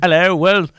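put-on British accent; mock British gent; British guy. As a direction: answer confidently in a British accent. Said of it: "Maybe the British guy can say".

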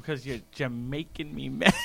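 giggling mid-line at his own pun; laughing at the silly pun; laughing through it. Real, not acted. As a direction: crack up on the last word.

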